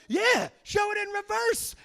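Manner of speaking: high, loud, drawn-out cheer; bystander joining in. Retold or imitated. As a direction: shout it across the room in eager agreement. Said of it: "this guy over here goes".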